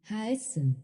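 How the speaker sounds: haessen given the weight, falling at the end; teacher shows the emphatic pronoun haessen; stress on the pronoun. Shown as a demonstration. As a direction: land on haessen. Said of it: "You can hear the emphasis shift".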